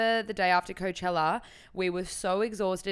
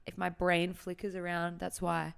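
hungover. Real, not acted. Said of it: "I'm severely hungover".

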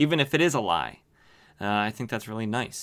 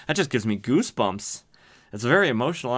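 normal talking voice

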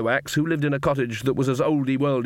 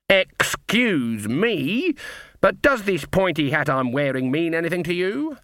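slow, higher, pointed menace; menacing excuse me; 5 semitones higher, slower than usual. Acted. Granny pressing the captain about her hat, slow and menacing. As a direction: push the words at him like a charge. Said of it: "words like charge and kill".

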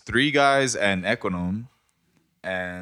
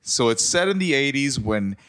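dramatic reading; 3 semitones higher than usual. Acted. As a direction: narrator voice, reading a mystery intro. Reads murder mystery intro.

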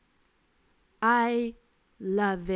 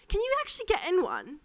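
higher, sly request; high mock drunk guest; 10 semitones higher than usual. Drunk guest asking the server into photo, high. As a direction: ask it like a creepy guest. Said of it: "he goes".

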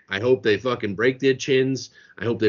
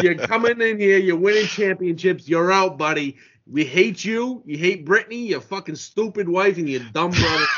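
higher heated tirade at the family; passionate rant; 5 semitones higher than usual. Real, not acted. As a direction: spit it out with real passion. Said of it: "the passion, too".

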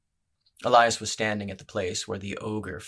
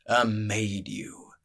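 whisper; 3 dB louder, much slower than usual. Acted. Spider threatens the brawler.

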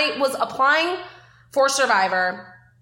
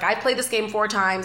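lightly imitated veteran player giving a pep talk; a hint of his Boston voice; Boston Rob. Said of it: "Great impression".

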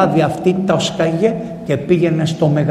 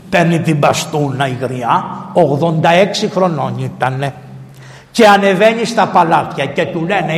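ordinary talk, nothing marked

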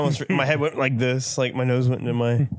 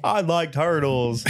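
slow, dopey meme voice; 2 semitones higher, much slower than usual. Pretend. Quoting a meme.

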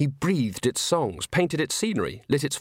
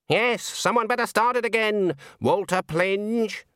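higher, slow insistent repeat; coaxing firm witch; 8 semitones higher than usual. A narrator's reading. Granny repeating her order to Walter, coaxing and firm. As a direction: press the point gently but firmly.

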